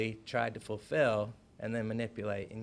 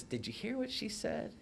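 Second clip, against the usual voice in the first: whisper; 8 semitones higher, 5 dB quieter than usual. Retold or imitated. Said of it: "she whispers in my ear".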